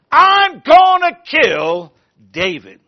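slow, loud, deliberate vow; slow loud threat. Acted. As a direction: Saul vowing slowly and loudly.

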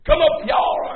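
hearty commanding holler; shouted summons. Acted. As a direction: call everyone up with a shout. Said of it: "He's coming with a shout".

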